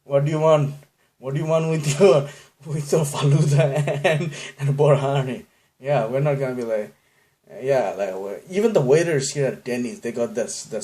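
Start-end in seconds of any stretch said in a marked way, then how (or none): 0.0-5.5 put-on higher, louder, polite Bangladeshi accent; humble waiter offering dishes; meek Bangladeshi. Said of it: "So we're like".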